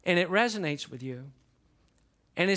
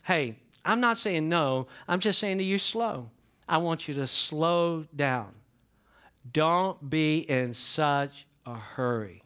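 gentle God's voice; slower than usual. Retold or imitated. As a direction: speak it gently as God slowing you down. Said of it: "God is gonna say to you".

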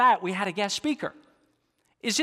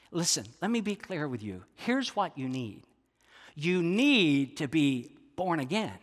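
solemn instruction. Acted. Voicing Jesus instructing Nicodemus solemnly.

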